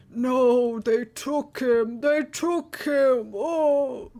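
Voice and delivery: put-on a huge child wailing over his lost pet; crying giant. Hill giant crying to Kova that they took his pet, loud and wailing. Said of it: "he starts crying".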